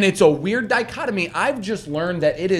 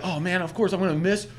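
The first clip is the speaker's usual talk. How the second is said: sarcastic inner voice; 7 semitones higher than usual. Retold or imitated. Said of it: "I was like".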